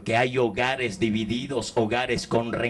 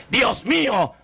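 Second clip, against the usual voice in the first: mourner's cry; 8 semitones higher, slower than usual. Retold or imitated. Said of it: "muchos me reclaman con autoridad".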